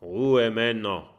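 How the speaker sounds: captain silencing his men; commanding call. Acted. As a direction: call the crew to order. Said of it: "ruft Haifisch Erik".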